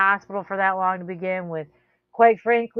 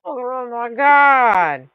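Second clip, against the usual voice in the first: exasperated rant; 5 semitones higher, 3 dB louder than usual. Pretend. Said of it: "Just be like".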